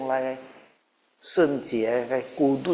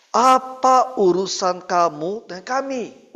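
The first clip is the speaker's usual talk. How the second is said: possessed man's cry; 4 semitones higher, slower than usual. Retold or imitated. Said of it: "dia teriak apa".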